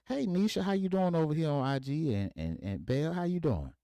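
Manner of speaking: high, bright showman's call-out to the viewers; playful dad greeting. Retold or imitated. Dad calling out to his Instagram viewers, high and playful. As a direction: greet the room like a proud goofy dad.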